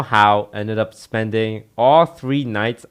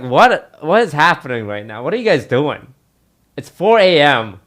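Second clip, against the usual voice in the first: incredulous disbelief; 4 semitones higher, 5 dB louder than usual. Retold or imitated. Seeing friends strip at 4am.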